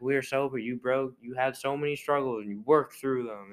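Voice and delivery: lightly mocking impression of an annoying commissioner; Gary Bettman. Podcaster imitating the league boss praising players, lightly annoying voice. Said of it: "Gary Bettman's like".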